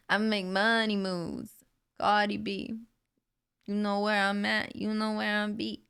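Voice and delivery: lightly imitated New York rapper accent. Streamer trying out a rapper's voice for viewers, playful accented impression. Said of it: "I really wanna learn her voice".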